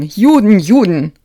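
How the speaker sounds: high, loud, sobbing scream. A narrator's reading. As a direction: scream it out in despair.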